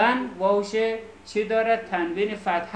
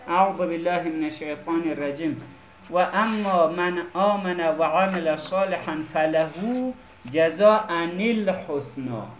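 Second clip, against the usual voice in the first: slow, measured Arabic recitation; careful teacher's recital of scripture; Quran recitation. Shown as a demonstration. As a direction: recite with long held vowels.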